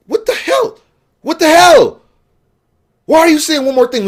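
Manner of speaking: very high, incredulous outburst; high-pitched fed-up protest; exasperated disbelief. Retold or imitated. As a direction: squawk it in baffled outrage. Acting out baffled, angry reaction.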